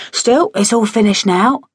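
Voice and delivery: a touch of know-it-all authority, lightly voiced. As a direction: state it like the matter is closed. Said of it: "he said with authority".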